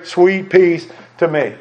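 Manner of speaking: "Sweet peace to me" slowed and softened, lingering on "peace"; gentle hymn echo. Shown as a demonstration. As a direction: let "Sweet peace to me" fall slowly and tenderly, like a hushed reassurance. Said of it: "He whispers in my ear".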